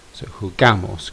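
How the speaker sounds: jugamos with the A stressed. Shown as a demonstration. Teacher showing the class where jugamos is stressed. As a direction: lean on the A in jugamos. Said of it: "can you hear it?".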